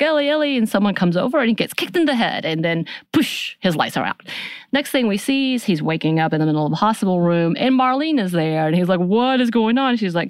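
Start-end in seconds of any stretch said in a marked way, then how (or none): 0.0-0.6 high-pitched imitation of alarm; mock panicked call. Retelling a panicked call after a blast. 9.0-10.0 raised-pitch, alarmed question; mock bewilderment. Retelling a confused waking demand.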